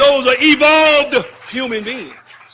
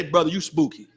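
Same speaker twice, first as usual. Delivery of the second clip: much softer and lower mocking jeer; mock scoffing brother; 7 semitones lower, 5 dB quieter, faster than usual. Preacher imitating Muslims brushing off strictness, soft scoffing. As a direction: tease like a dismissive brother. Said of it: "we have the".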